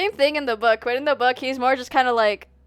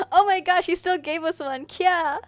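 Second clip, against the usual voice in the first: excited anime fan; 6 semitones higher than usual. Real, not acted. Gets a chip from crush.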